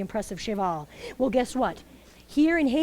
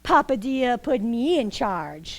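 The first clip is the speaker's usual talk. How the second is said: slow bossy guardian; slower than usual. Acted. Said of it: "And Mabuya said".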